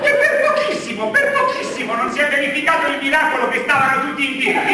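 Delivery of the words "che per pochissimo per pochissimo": high-pitched excited outburst; excited burst. Acted. Priest reaching the sermon's punchline excitedly.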